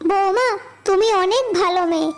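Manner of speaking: put-on an elderly mother speaking softly and gratefully; old mother. Old mother praises daughter-in-law. (নরম উঁচু গলায় বৃদ্ধা মায়ের স্নেহভরা কণ্ঠ)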